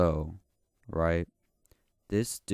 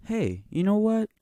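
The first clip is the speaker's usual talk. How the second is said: much higher and louder, goofy put-on voice; high silly voice; 13 semitones higher, 7 dB louder than usual. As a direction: switch into a squeaky character that chats up the listener. Sudden high-voiced aside to listener.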